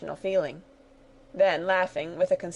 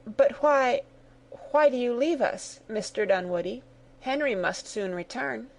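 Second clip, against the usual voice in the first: hurried voice; 4 semitones higher than usual. Acted. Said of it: "inquired in a hurried voice".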